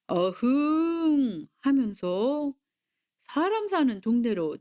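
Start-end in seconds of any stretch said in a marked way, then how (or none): 0.1-1.5 long, drawn-out storybook roar; tiger roar. A narrator's reading. Tiger off to hunt in the village, long roar. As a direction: stretch the roar out slowly.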